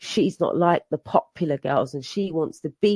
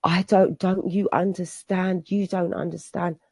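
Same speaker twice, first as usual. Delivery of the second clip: imitating a hysterical child, pitch raised and louder; a daughter's desperate outburst, voiced up high; 4 semitones higher, 4 dB louder than usual. Daughter crying out in the street, hysterical.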